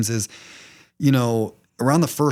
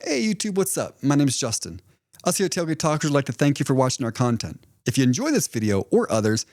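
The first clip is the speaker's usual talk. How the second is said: outro read. Acted. Host thanking YouTube viewers, light outro read. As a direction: pitch the subscribe button to viewers.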